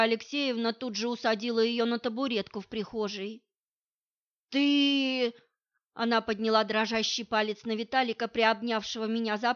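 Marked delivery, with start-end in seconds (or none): 4.5-5.3 put-on drunk mother. Drunk mother confronts Vitalik.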